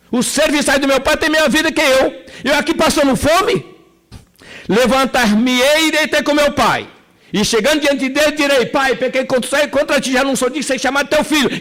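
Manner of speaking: prodigal son's inner voice. Acted. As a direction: speak as the hungry son resolving to go home. Prodigal son rehearses his return.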